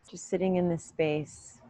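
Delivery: calm, even meditation voice with long pauses; unhurried yoga-teacher meditation cues; guided meditation. Real, not acted. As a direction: guide them gently inward, leaving room to breathe.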